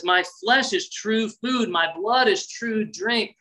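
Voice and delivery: slow deliberate repeat; slow, emphatic. Retold or imitated. Jesus repeating to the crowd, slow and emphatic. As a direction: weigh each word slowly. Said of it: "He says".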